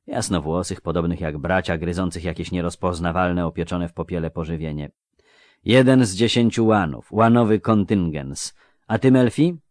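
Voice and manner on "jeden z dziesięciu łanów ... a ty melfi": a lightly voiced earnest youth; curious young clerk; young scribe voice. Jare asks Melfi.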